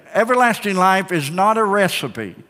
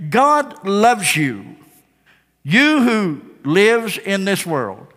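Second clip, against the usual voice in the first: slow, gentle and sincere; tender assurance; 2 semitones higher, much slower than usual. Acted. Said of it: "I want to begin by just saying".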